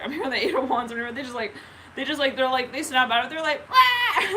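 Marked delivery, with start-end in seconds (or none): 3.7-4.3 sudden high, loud bawl; mock crying wail. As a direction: burst into a toddler's fake wail. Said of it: "They just, like, start crying again".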